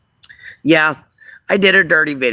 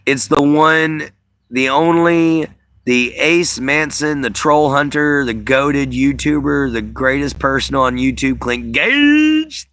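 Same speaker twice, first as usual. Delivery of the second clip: hype announcer intro; 2 semitones higher, slower than usual. Acted.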